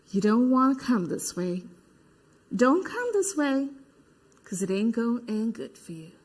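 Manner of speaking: quiet, measured threat; low warning. Acted. Telling marchers to turn back, quietly menacing.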